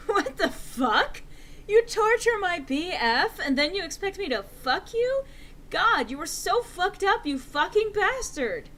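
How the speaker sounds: loud, high, furious outburst; angry. Acted. Enderby raging at Snaketail, high and loud. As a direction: spit it out, outraged and loud. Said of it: "I said angrily".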